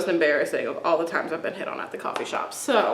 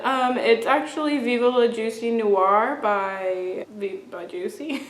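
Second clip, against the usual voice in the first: halting, stumbling answer. Retold or imitated. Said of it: "I didn't say it like that".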